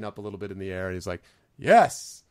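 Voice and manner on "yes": loud, triumphant goblin cry, pitched up; Gleek. Acted. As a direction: proclaim it like a goblin in his glory. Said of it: "he's clearly in his glory".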